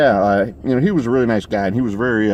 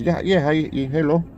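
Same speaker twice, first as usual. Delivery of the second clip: higher-pitched, badly faked Mexican accent; rough Mexican accent; 7 semitones higher than usual. Stranger at the gas station answers a greeting, badly faked Mexican accent. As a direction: imitate a Mexican man with a loose accent. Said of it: "how to do a good Mexican accent".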